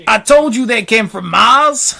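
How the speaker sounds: high, slow exclamation; acted high shout; police chief calling. A narrator's reading. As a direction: call it out as vindication. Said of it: "called the chief of police".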